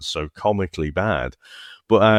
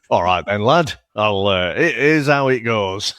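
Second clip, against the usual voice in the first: put-on working-class accent; 2 semitones higher, 3 dB louder than usual. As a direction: play a chirpy mock working-class Brit, breaking into a laugh. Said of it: "just give me a working class accent".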